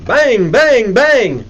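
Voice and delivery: three high, punched bangs; emphatic knocking noise, voiced as words; imitated door pounding. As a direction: pound out each bang like a fist on a door. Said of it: "you pound on the door".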